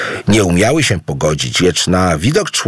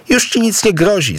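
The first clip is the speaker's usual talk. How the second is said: high, gentle little jerboa voice; reassuring; 13 semitones higher than usual. A narrator's reading. Jerboa reassures frightened Idu, high and gentle. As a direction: soothe him like a tiny helpful creature. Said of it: "zapewnił go skoczek".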